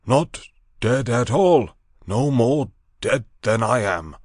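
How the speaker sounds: loud, high insistence; emphatic insisting. Acted. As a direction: insist forcefully. Montgomery insists.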